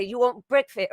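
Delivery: a band's singer. Retold or imitated. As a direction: mimic a British singer offering food. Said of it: "he would always say".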